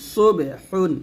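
heavy, rounded "স" opening সুবে; thick Sad. Shown as a demonstration. Teacher modelling the letter Sad, thick sound. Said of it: "সদ মোটা করে বলবেন".

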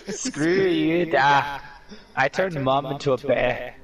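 lightly put-on Irish accent; a passable stab at an Irish brogue. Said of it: "I think my Irish accent is horrible".

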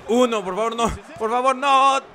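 pleading then shouting in triumph; beg, then cheer the win; excited pin count. Acted.

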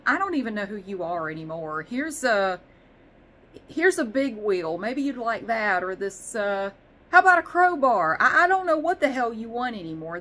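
exasperated algorithm voice; voicing Amazon. Amazon's algorithm confused by orders, rising exasperation. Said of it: "Amazon's going".

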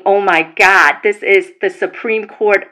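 mildly mocking gasp of the haters; mock alarmed haters. Mocking Teresa Giudice haters who misread the lawsuit, mild mock alarm. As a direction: lightly play the panicked non-New Yorkers. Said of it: "where it would sound like that".

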